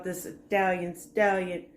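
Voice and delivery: put-on brief joking slip into boxer accent; lightly mock the movie boxer's accent; a hint of bad Rocky impression; horrible Stallone accent. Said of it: "I promise I'll stop".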